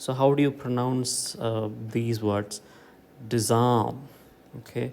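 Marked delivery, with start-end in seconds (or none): 3.3-4.0 disarm with ARM stressed; light dis, heavier ARM in disarm; stress on second syllable. Shown as a demonstration. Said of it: "falls on the second syllable".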